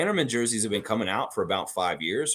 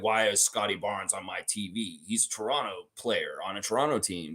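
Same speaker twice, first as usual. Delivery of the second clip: mock complainer; 3 semitones lower, 5 dB quieter than usual. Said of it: "some people out there are like".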